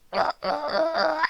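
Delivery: soft low uneasy laugh; nervous chuckle. Acted. Dog laughing softly to viewers. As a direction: laugh it off, unsure.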